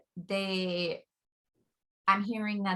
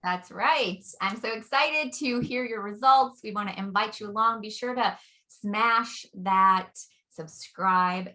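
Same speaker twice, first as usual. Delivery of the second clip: excited; 6 dB louder than usual. Acted. Upbeat outro pitch to viewers.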